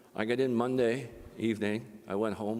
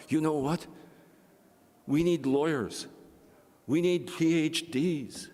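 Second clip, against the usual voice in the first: rousing build; 6 semitones higher than usual. Pretend. Imagined rallying speech to grandson.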